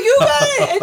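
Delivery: very high imitated shout; mock excited yell. Guide yells to Conway about the hooked fish, mock shout. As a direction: shout it way up high, half laughing.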